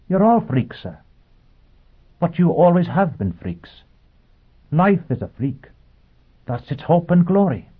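high, earnest robot voice; a machine preaching with conviction. Acted. Robot lecturing Foyle.

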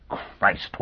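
whispered under the breath; hushed, stunned oath; shaken whisper. Acted. Dagenham's hands shook, shocked.

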